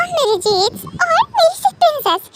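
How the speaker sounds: high, drawn-out, doting delight; adoring coo. Acted. Doting parent watching the cute couple, cooing adoringly.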